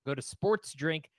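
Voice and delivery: upbeat sponsor read, a bit brisk; casual podcast ad read. Acted. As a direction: sell it like a podcast host ad spot. Reads the ad plug.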